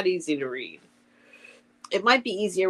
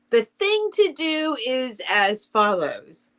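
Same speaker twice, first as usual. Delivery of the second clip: slow, slightly raised storybook delivery; story read-aloud; 5 semitones higher, 5 dB louder, much slower than usual. A narrator's reading. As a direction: read it out slowly, phrase by phrase. Reads Owl's lines from a story.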